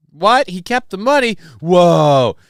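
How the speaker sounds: sudden high disbelieving what; surprised. Real, not acted. Streamer reacting to chat, shocked and incredulous. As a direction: jumps up in pitch in disbelief.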